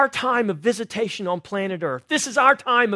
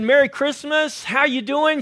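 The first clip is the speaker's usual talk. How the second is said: higher, louder friendly hello; upbeat holiday greeting with a smile; smiling cheerful greeting; 5 semitones higher, 4 dB louder than usual. Retold or imitated. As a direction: beam it at a passer-by. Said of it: "when I smiled at her and said".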